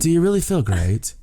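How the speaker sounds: high British-accented mimicry of wife. Wife questioning her husband, mock British accent. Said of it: "the terrible British accent".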